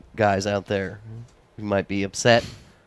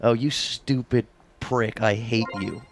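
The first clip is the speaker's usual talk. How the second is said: attempted British accent; slower than usual. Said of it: "how about this one, guys?".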